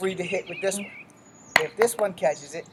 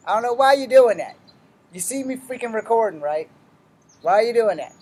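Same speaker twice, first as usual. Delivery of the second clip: angry; 5 semitones higher, 7 dB louder than usual. Real, not acted. Scolding someone interrupting the recording.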